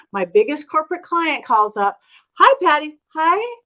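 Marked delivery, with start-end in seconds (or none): 2.3-3.6 high, loud imitation of an eager caller; excited greeting. Biggest corporate client calls after seeing her, excited. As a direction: imitate a gushing phone hello.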